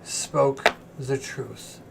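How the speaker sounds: chained celestial diva. Acted. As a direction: speak as a weary, captive angel.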